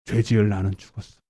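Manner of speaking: low, softened declaration; subdued declaration. Shown as a demonstration. Preacher declaring his sinful self dead, subdued. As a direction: bring it down low and soft.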